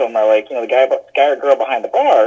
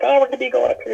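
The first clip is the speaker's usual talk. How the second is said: own quote; 12 semitones higher, much faster than usual. Retold or imitated. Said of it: "We're like".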